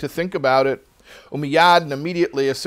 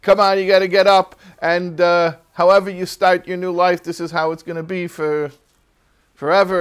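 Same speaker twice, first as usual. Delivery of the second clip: louder, higher push to get up; rally him out of bed; loud hint of a coaching voice; rousing good inclination; 4 semitones higher, 4 dB louder than usual. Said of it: "another voice came and he said".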